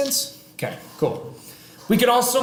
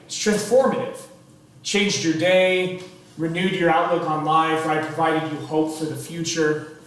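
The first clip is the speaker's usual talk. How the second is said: oversell it with a straight face; sarcastic teacher overselling the balance lab; deadpan sarcasm. Acted. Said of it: "That was sarcasm".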